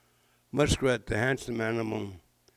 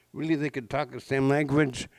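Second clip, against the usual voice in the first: surprised question; 3 semitones higher than usual. Shown as a demonstration. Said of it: "Grandma said they could".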